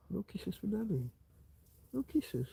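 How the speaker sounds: mock-sulk to the dog in a high coo. Real, not acted. Baby talk to dog.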